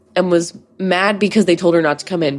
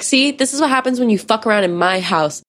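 retold yelling; 4 semitones higher than usual. Mom yelling after the teen she kicked out, mock indignant scolding. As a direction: imitate an angry mom having the last word. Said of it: "yelling behind me".

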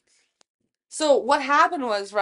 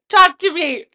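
put-on higher, louder drunken protest; loud yell; 8 semitones higher, 9 dB louder than usual. Drunk friend yelling at the bartender. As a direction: demand the bartender listen.

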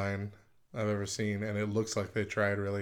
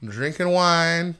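laughing; 4 semitones higher, 7 dB louder, slower than usual. Real, not acted. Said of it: "So, Matt".

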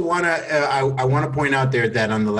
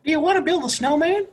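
high, giggling through the line; laughing pickup line. Acted. Teasing the friends with the pickup line, high and giggling. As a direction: try to say it without cracking up. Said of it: "I'll do it like that".

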